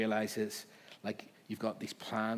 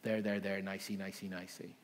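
mock soothing. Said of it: "That's not me going".

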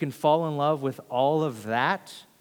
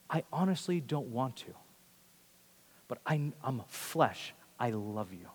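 humbled sincerity; 5 dB quieter than usual. Acted. Peter tells Jesus he is only flesh, humble and sincere. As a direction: humbly admit weakness, pausing between phrases. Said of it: "in all humility, having failed".

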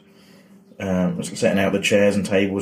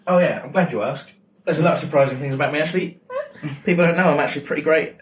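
smug; 5 semitones higher, faster than usual. Retold or imitated. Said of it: "Do you get people go".

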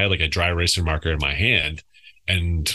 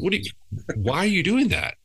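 exasperated yell; 12 semitones higher than usual. Retold or imitated. Coach scolding son retold.

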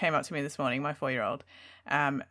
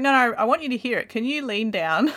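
lightly voiced child, higher and quick; eager four-year-old; 4 semitones higher than usual. Daughter asking mum to lean down, lightly voiced eager child. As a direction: plead like an earnest little kid. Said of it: "she's like".

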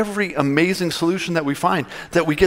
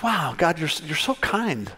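soft awe; 5 dB quieter, slower than usual. Retold or imitated. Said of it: "and I was like".

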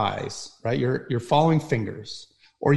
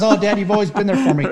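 mock sentimental son, laughing; 7 semitones higher, 6 dB louder than usual. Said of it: "But he goes".

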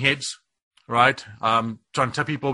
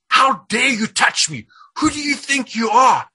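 defiant outrage; 9 semitones higher, 4 dB louder than usual. Retold or imitated. Pinned by a demon, defying it with an angry shout. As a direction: rise up against the attacker.

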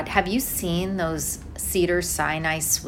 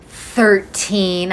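louder puzzled echo of Thirteen; Thirteen, said in disbelief; surprised; 6 dB louder than usual. Real, not acted. Friend echoes the odd middle name in surprise. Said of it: "I didn't get the middle name".

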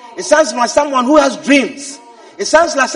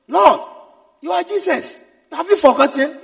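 raised-pitch remonstrance; acted rebuke; 4 semitones higher than usual. Peter reminding Jesus who he is, rebuking. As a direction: remonstrate with someone above you. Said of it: "began to rebuke him".

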